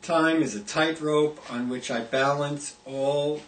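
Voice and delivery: measured poetry reading, each image set apart by pauses; poem recitation. Acted. Poet reads "Time Is" from an anthology, measured recitation. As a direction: recite it line by line, falling at the close.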